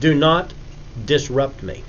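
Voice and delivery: mildly acted fussy elderly scientist; lightly voiced irritated gentleman. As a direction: politely dismiss an intruder, word by word. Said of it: "he looks at you and says".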